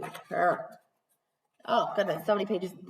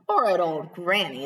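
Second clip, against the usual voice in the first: growl; 4 semitones lower than usual. Acted. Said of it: "the wolf growled".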